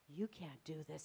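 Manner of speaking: low, soft self-doubt; telling himself. Acted. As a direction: murmur it inwardly to yourself. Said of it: "he tells himself".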